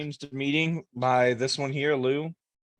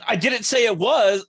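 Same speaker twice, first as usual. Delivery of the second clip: louder, drawn-out sarcastic protest; sarcastic, dismissive; 6 semitones higher, 6 dB louder than usual. Real, not acted. Player defends a jab at a name, sarcastic and dismissive. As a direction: push back with a dismissive edge. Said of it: "it's your tone of voice".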